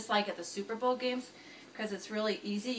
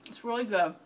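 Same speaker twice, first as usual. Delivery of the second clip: talking through a mouthful; chewing while speaking, mouth full; 2 semitones lower than usual. Real, not acted. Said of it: "now I'm eating with my mouth full".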